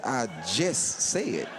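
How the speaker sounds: a slow dry comeback; deadpan. Retold or imitated. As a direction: drop it flat and literal. Tim's deadpan retort.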